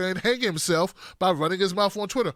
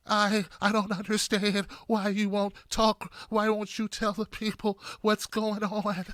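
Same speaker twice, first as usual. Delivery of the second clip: soft, slow, whiny voice of a politician pretending to be hurt; mocking Klobuchar impression; 5 dB quieter, slower than usual. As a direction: say it softer and slower, as if about to be wounded. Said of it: "She just talks like this".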